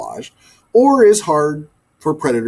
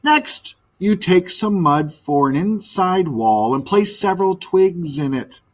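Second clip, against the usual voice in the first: a lightly raised, patient teaching voice; teacherly magpie; 4 semitones higher than usual. Acted. Magpie instructing the birds, lightly voiced. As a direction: explain each step like a bird teacher.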